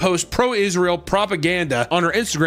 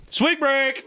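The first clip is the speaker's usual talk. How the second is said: excited call; 11 semitones higher than usual. Acted.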